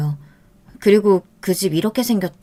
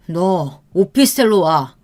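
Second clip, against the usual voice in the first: menacing command; slower than usual. Acted. Boyfriend ordering girlfriend to his officetel, menacing. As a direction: order her, cold and slow.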